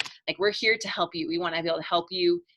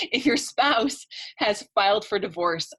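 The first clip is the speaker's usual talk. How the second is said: slow, deliberate "spouse" said cleanly; slow down and say "spouse" properly this time; careful redo; 3 semitones higher, 3 dB louder, slower than usual. Real, not acted. Coach to webinar viewers, slowly correcting "spouse" after a slip. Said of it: "I talk to toddlers all day usually".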